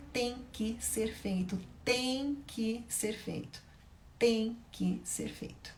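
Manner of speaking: each word slow and quiet but firm; slow firm emphasis. Real, not acted. Teacher stressing to parents that deals must be kept. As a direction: lay down the rule slowly, word by word. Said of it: "emphatic slow repetition".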